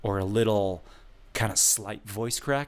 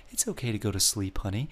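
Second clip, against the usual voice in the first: soothing lullaby tone; 4 dB quieter, faster than usual. Shown as a demonstration. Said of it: "I'm quieter".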